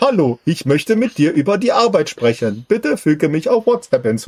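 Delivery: slow, stiff robotic monotone; bad robot voice. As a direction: imitate a cheap scam robot voice. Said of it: "mit so einer schlechten Roboterstimme".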